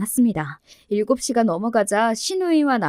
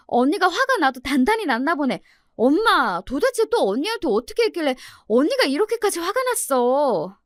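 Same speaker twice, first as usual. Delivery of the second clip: put-on higher-pitched, animated young in-law confronting mom; concerned sister-in-law, reproachful; 5 semitones higher than usual. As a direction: take mother to task in a higher voice. Voices sister-in-law questioning her mother. (엄마를 다그치는 높은 목소리의 시누이)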